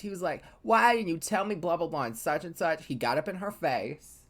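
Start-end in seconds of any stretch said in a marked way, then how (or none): 0.6-2.9 mock accusation without yelling; accusing retelling. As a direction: confront them, tailing into blah-blah summary. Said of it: "He accused".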